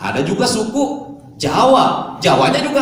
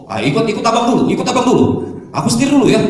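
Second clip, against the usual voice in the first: put-on Batak accent; 3 semitones higher, faster than usual. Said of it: "logat Batak".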